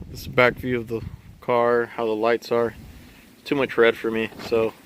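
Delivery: wind in the face. Real, not acted. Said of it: "sorry, it's a little windy out here".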